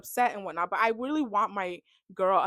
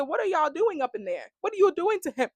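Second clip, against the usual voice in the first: mock shock; 8 semitones higher than usual. Vlogger reacting to a steamy preview, high and scandalized. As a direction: gasp it out like you can't believe it.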